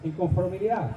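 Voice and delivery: booming formal royal decree; town crier proclamation. Acted. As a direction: proclaim it like a medieval herald. Formal medieval royal proclamation read aloud.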